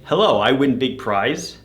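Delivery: carefully intoned, simple broken English; simplified foreigner-directed English. Retold or imitated. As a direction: read it like a basic message for a non-native listener. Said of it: "I do change my intonation".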